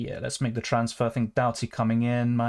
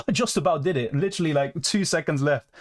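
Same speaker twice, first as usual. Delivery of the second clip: higher, laughing with real relief; breathless relieved laughter; 4 semitones higher than usual. Real, not acted. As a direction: laugh through it, just scraped in. Made transfer seconds before deadline.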